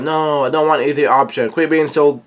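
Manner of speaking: half-hearted imitation of an exasperated yell; mild mock yell. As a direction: play at yelling a refusal. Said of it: "Nami yells out".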